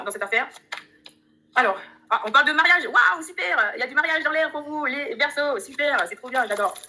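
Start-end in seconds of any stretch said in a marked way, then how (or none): 2.3-4.6 a delighted high exclamation; excited. Real, not acted. Voyante ravie par la carte mariage, cri de joie. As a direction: gasp with joy at the good card. Thrilled by marriage card.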